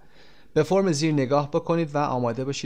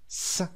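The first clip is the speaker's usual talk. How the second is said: hissing s demo; 6 dB quieter than usual. Shown as a demonstration. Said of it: "He cooks، صدای س".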